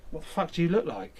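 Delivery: high, loud mock disbelief; hammed-up shocked teammate; mock outrage. Teammate mocking his appearance.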